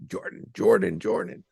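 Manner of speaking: calling out high and urgent; screaming a name. Retold or imitated. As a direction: yell her name across the house. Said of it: "I'm, like, screaming her name".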